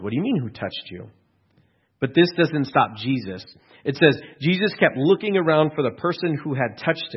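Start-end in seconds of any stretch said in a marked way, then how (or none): 0.0-1.1 acted bafflement, voice swooping up midway; baffled. Disciples puzzled by who touched Jesus, baffled. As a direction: repeat the question as if baffled. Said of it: "They're baffled".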